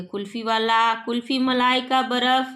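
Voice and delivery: lightly voiced street hawker; kulfi seller's cry. Kulfi seller cries outside the house, light hawker call. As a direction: sing out the kulfi like a vendor. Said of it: "कुल्फी वाले की आवाज़ आती है".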